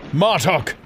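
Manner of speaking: high, loud desperate calling out to his sister; a brother's desperate cry, pitched high; desperate plea. Acted. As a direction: plead across the sky, urgent and raw. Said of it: "his screeches became a desperate plea".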